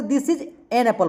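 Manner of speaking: "This is an apple" read slowly with an unstressed; unhurried everyday reading, an light; slow normal read. Shown as a demonstration. Teacher modelling the normal article. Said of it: "क्योंकि normal बोलना होता है".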